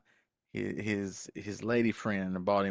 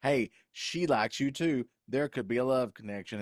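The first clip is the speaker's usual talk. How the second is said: excited matchmaker; 4 semitones higher than usual. Retold or imitated. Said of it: "you're like".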